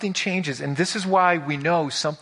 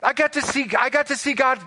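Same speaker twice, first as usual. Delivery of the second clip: much higher, hammed-up giddy voice; squealing mock glee, louder; mock excitement; 11 semitones higher, 5 dB louder than usual. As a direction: play the giddy fool who can't wait to see God. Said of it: "It's not that he's all excited".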